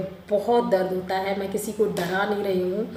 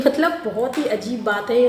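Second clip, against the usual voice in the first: laughs through the words, louder; can't hold back a laugh while telling it; 3 semitones higher, 4 dB louder than usual. Real, not acted. Woman retelling her labour night to viewers, laughing. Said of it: "मुझे हंसी आ रही है".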